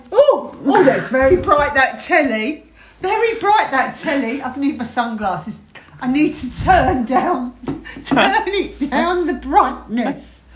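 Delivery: hammed-up delicate complaining; mock drama queen. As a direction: imitate a fusspot, drawing out the ends. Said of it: "Drama queen?".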